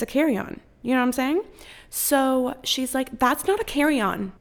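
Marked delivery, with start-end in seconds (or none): 3.2-4.3 slightly raised, blunt gate-agent brush-off; curt flat dismissal. Retold or imitated. Gate agent refusing the bag, curt and dismissive. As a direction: shut it down like it's final. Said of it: "just like that".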